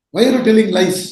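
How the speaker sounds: mild mock shout at a child; half-hearted teacher's telling-off; retold shout. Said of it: "he shouts at the boy".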